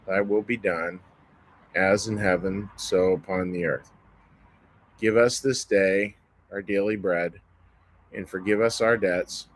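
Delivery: measured, reverent prayer recitation. Acted. Says the Lord's Prayer.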